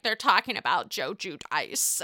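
mock tearful wobble; imitated crying. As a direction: say it as if tearfully reporting gossip. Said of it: "like, crying and she's like".

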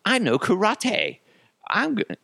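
high-pitched cocky schoolboy; mimicked boastful kid. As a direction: brag in a squeaky kid voice. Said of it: "And then he's like".

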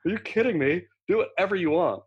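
mocking harbor master. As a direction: scoff it off like a dismissive official. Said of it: "laughed at him and said".

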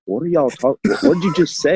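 high-pitched mock bafflement; baffled wife. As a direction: imitate a wife who can't follow a word. Retold wife baffled by accent.

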